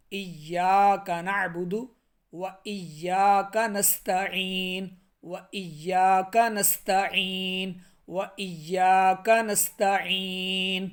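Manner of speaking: ایاک with a short clear ای, not stretched, recited slowly; slow Quranic recitation, ایاک crisp; correct recitation. Shown as a demonstration. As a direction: recite ایاک نعبد و ایاک نستعین slowly, clean ای. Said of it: "نہ ایا ہو اور نہ ایا ہو".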